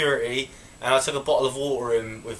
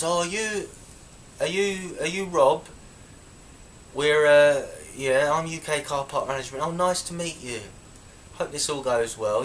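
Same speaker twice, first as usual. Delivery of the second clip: sugary fake-friendly woman, a bit higher; fake nice; 3 semitones higher than usual. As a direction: play it falsely sweet and friendly. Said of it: "acting all nice with me".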